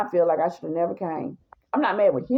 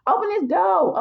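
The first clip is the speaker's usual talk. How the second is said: high yapping shout at the door; woman pounding on the door, yapping shout; 8 semitones higher than usual. Retold or imitated. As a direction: bark it through the door like a chihuahua. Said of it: "she's yapping like a little chihuahua".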